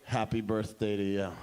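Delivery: low, understated presentation; solemn second reveal. Acted. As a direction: deliver it deep down, like a weighty reveal. Mildred reveals identical second line.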